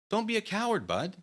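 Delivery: high, loud taunting yells; taunting shout. Acted. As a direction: goad him like a schoolyard bully. Taunting opponent to fight.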